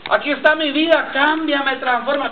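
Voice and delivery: a hint of the sobbing prayer from that day; retold tearful plea. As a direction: relive the moment you broke down begging. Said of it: "llorando a gritos".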